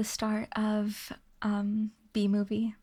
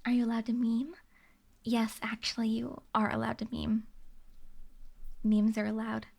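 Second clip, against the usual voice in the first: whispering. Real, not acted. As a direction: whisper it close to the mic. Whispered answer on ASMR stream.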